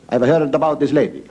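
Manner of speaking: lightly put-on Italian accent for the Pope; comic Italian-accented pontiff; mock Italian accent. Holy Father to his secretary, hint of Italian accent. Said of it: "That's the way he talks".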